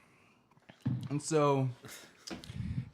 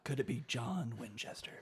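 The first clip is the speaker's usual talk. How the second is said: mock-hushed wondering aloud; soft, half-whispered guess; hushed speculation; 7 dB quieter than usual. Co-host voices the brothers wondering about the letter, hushed.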